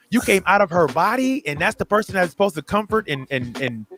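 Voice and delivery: a mock-aghast aside to the girl; shocked disbelief. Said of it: "I'm like".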